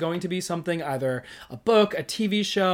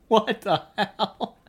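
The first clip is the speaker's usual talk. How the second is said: stunned disbelief; 8 semitones higher, 4 dB louder, much slower than usual. Real, not acted. Stunned by time passing.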